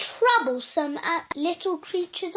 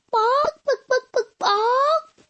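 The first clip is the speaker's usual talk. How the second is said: high, loud yappy barks; barking dog; 8 semitones higher, 3 dB louder, slower than usual. Pretend. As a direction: bark like an excited little dog.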